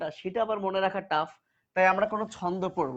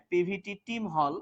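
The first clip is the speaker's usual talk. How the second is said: slow mnemonic; slower than usual. Shown as a demonstration. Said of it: "খবরদার লিখবা না".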